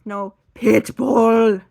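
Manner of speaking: loud slow pleading whine; mock whine insisting on the pit bull; insistent squeal. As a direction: drag it out, loud and begging. Insisting excitedly on dog.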